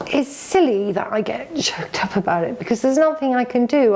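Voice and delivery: real tears, voice dropping to a whisper; fighting back tears as she speaks; a whispered, tearful admission to her partner; choked up. Real, not acted. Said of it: "And I'm getting choked up now".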